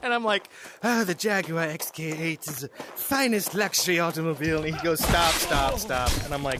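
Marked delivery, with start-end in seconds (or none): 0.8-4.6 poor, fake put-on English accent. Speaker retells how he delivered a line before being told to stop, bad english accent. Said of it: "you're no good at an English accent".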